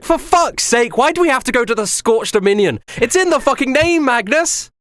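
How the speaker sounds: high, fed-up complaining at Magnus; exasperated rant. Acted. Scarla griping at Magnus about the heat, exasperated. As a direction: throw up your hands and vent, pitched high. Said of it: "Scarla looks out and she's like".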